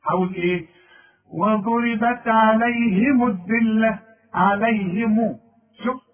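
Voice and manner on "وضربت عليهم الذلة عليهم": عليهم read slowly with the meem given a clear u vowel; slow recitation of عليهم with a vowelled meem; voiced meem. Shown as a demonstration. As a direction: stretch عليهم so the moving meem shows. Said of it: "أظهر إنها متحركة".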